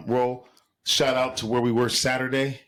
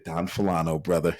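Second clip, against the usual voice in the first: lower, assured nod of approval, mildly acted; confident low answer; 6 semitones lower than usual. Teller recounts approving the clerk's pick, a touch lower and assured. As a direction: settle it like a friend who knows his tequila. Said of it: "I said".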